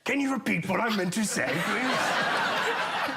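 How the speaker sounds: fast, breathless, laughing as if fleeing a lion; panicked dash while spelling; David Attenborough being chased. Pretend. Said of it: "impression ... is David Attenborough being chased".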